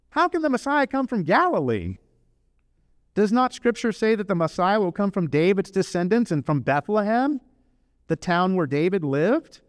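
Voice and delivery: mock a doubter in the crowd; skeptical questioning.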